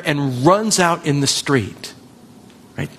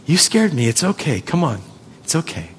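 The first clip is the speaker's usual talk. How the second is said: put-on a gentle parent calming a frightened child after the street; tender comforting; 4 dB quieter than usual. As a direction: hold the child close and soothe.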